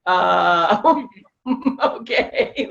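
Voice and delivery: lightly voiced bewildered husband, drawn-out uh; hesitant, half-laughing mock okay; imitating baffled husband. Wife mimicking husband facing three bawling people, mock bafflement. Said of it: "My husband is like".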